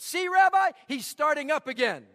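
high, loud complaining cry; exasperated outburst. Acted. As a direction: throw the line up in exasperation to the rabbi. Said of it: "threw up his hands and said".

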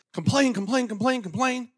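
high singsong complain chant; mock the whining in a singsong. Preacher mocking complainers in a high singsong.

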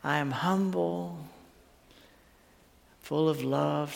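hushed, tender scripture quote; words of grace. Retold or imitated. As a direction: offer comfort quietly, leaving long pauses. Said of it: "the words of grace".

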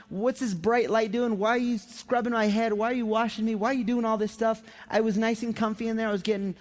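high, protesting string of complaints; indignant newborn. Acted. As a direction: voice an affronted baby just pulled from the womb. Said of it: "You're crying. You're like".

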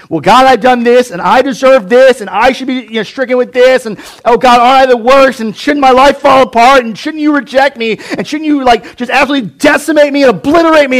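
high, loud, whining self-pity; self-pitying Cain. Retold or imitated. Cain begging God for punishment, high and whining. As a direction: wallow dramatically in guilt.

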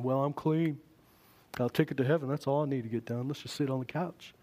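complacent Southern couch-sitter; Southern accent. Acted. Complacent believer talking from the couch, Southern accent. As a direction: put on a light Southern accent. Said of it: "I use the Southern accent".

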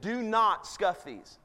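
slow, word-by-word warning; retold parental order, spaced out slowly; retold stern warning. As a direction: lay down the rule one word at a time. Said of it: "I cried out loudly to him".

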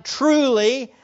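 lightly stressed TRULY; emphatic TRULY. Retold or imitated. Preacher quotes Jesus opening a key statement, emphatic TRULY. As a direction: stress TRULY as an attention-getter. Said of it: "starts it with the emphatic".

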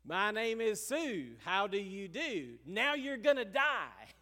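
quoting the song's son, confronting the dad who named him Sue, a loud threat; mock country-singer threat. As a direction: deliver it like a gunslinger's threat. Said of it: "And he says".

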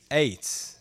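ATE rhyming with "late"; low, soft "eight" for Ate; American ate. Shown as a demonstration. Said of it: "I look at it and I says et".

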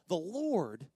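usual speaking voice

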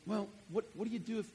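ordinary delivery

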